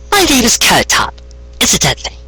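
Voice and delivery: high, bright farmer pony voice; Carrot Top voice. Acted. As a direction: pitch up into the earth pony.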